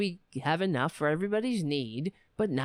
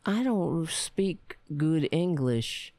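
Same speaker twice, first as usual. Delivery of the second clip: slow mock drill sergeant quote; lightly voiced drill sergeant, dragged out; a hint of the old army sergeant; imitating drill sergeant; 4 semitones lower, slower than usual. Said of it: "That's what the drill sergeant used to say".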